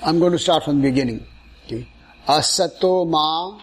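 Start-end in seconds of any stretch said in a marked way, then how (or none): 2.3-3.6 slow, one word at a time. Shown as a demonstration. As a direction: break it into slow single chunks. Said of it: "one word at a time".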